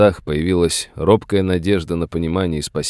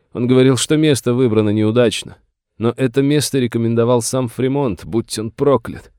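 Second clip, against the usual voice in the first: higher, plaintive indignation; aggrieved old master; 6 semitones higher, 3 dB louder than usual. A narrator's reading. Master grumbles to the sheriff about his son, aggrieved. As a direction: complain like a wronged father.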